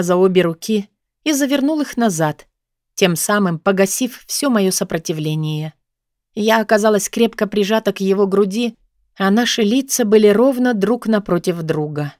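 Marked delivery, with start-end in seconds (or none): none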